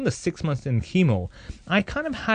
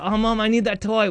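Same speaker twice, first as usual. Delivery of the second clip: put-on whiny kid; 9 semitones higher than usual. Kid begs mom for toy.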